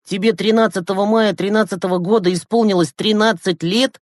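high, lively, astonished question; amazed delight. A narrator's reading. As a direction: marvel at it, pitch climbing to the end. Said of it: "восхитился Глеб". (с восхищённым изумлением, высоко)

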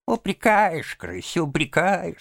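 high, feeble, wounded sigh; weak sighing. A narrator's reading. Sick Toad hurt by Rat's reproach, weak sighing. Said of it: "слабо вздохнул Жабби".

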